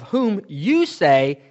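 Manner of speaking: YOU drawn out in a slow phrase; pointed emphasis on the word YOU; stress on YOU. Shown as a demonstration. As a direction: lean slowly on "you". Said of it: "The reason I say "whom you say".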